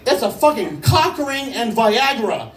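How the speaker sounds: high, slow, laugh-strained voice; struggling through laughter. Retold or imitated. Friend telling him what the package holds, helpless with laughter. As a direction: imitate someone barely able to speak for laughing. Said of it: "he can't fucking breathe".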